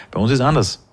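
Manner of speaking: ordinary delivery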